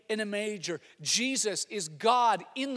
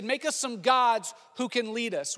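repeated with more force; louder, higher repeat of the crowd's demand; 4 semitones higher, 3 dB louder than usual. Acted. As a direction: raise the pitch and push it. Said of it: "He said".

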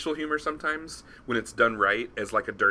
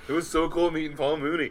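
laughing; 8 semitones higher than usual. Real, not acted. Storyteller still laughing after meeting his comedy hero.

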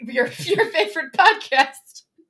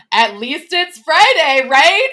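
cheerful mock; 5 dB louder, slower than usual. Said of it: "going around to my coworkers".

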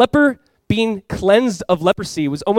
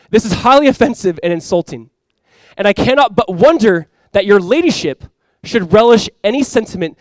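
offended duchess; 4 dB louder than usual. Retold or imitated. Duchess writes to Lady Huntington, mildly mock-indignant. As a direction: read out the letter with measured haughty offence.

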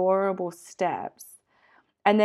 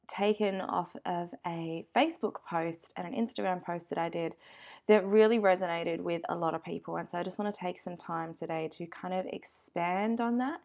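stuffy nose. Real, not acted. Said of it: "so if I sound sniffly and awful".

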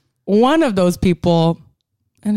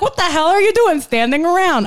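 mock kid yell, pitched high; 9 semitones higher than usual. Film fan mimics kids telling off adults, high mock yell. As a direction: imitate an indignant child scolding grown-ups. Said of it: "That's hilarious when kids yell".

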